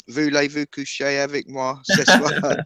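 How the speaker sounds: slow, mock French lyric; hint of a sung French line; French song line. Friend quoting the French song line, mock French. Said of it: "because of that song".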